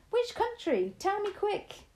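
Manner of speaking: put-on high, pressing boy's plea; impatient cry. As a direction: hurry her up. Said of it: "I cried impatiently".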